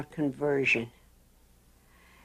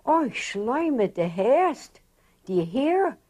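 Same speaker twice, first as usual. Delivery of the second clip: higher, drawn-out cry of dismay; retold alarm; 6 semitones higher than usual. Mother breaking shocking news to her husband, retold alarm. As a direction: alert your husband with swooping dismay.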